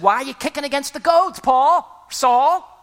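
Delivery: voice from heaven. Acted. Jesus calling Saul on the Damascus road, high and loud. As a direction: call him out by name, quick and ringing.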